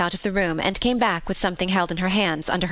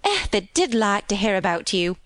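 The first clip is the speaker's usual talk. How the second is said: lilting Yorkshire maid, happily recounting; cheerful country housemaid. Acted. Maid telling Mary of her day out, happy. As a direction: chat on as a contented country maid. Voices Martha in dialect.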